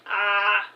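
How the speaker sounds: a long ah with the mouth held wide; open-mouthed ah. A narrator's reading. Ahi mimics the Duke and jester opening their mouths, open-mouthed ah. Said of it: "Ahi imitated their mannerisms".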